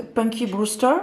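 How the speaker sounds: Punky Brewster in a light French-English accent; franglais accent. Shown as a demonstration. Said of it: "avec mon superbe accent franglais". (Punky Brewster avec un léger accent franglais)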